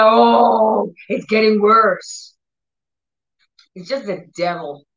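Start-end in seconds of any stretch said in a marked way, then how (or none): 0.0-2.4 frustrated. Retold or imitated. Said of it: "people get, like, frustrated".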